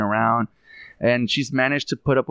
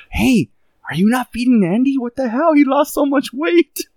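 mock outraged sister-in-law; 10 semitones higher, 3 dB louder than usual. Sister-in-law scolding wife, retold.

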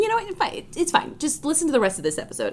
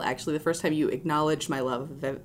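tongue tripping over numb mouth; slurring through a numb mouth; 5 semitones lower than usual. Real, not acted. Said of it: "my mouth is going numb".

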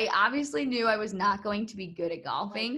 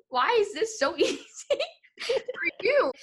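whiny; 11 semitones higher than usual. Retold or imitated. Envious of friend's golf.

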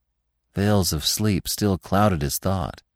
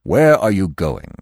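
earnest; 3 dB louder than usual. A narrator's reading. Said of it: "asked the old stag earnestly".

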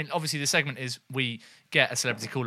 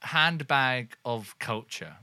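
announcer voice; much slower than usual. Acted. Host announcing segment.

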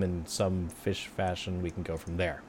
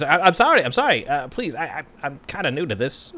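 nervous apology; 4 semitones higher than usual. Acted. Nervous new barkeep apologizing.

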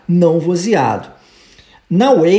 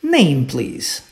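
model for repetition; 5 semitones lower than usual. Shown as a demonstration. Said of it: "So, let's repeat".

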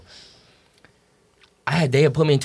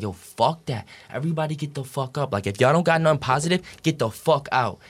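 higher-pitched mock angry outburst; retold freak-out; 4 semitones higher than usual. Dad ordering everybody out of the hospital room, retold freak-out. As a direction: act out a dad losing it, without full volume. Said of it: "he started freaking out".

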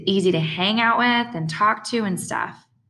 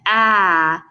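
retold "ah", louder than the narration; imitated cry; 6 dB louder than usual. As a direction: imitate a kid's yelp without full fright. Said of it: "when I heard Jamie talking".

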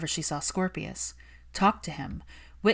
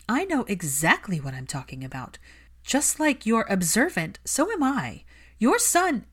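higher, louder furious plea; angry Hermione; 5 semitones higher, 4 dB louder than usual. Acted. Hermione scolding Malfoy for neglecting his son, heated. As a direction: defend the lonely child fiercely.

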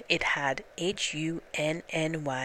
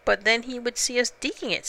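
Pooh, a small worried bear, a touch higher; 7 semitones higher, faster than usual. Acted. Pooh worrying to Piglet about being seen, lightly voiced bear.

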